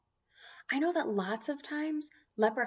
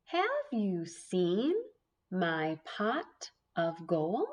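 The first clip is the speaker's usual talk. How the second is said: each word drawn out slowly; slow read; 4 semitones lower, much slower than usual. Shown as a demonstration. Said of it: "Let's find out what he does".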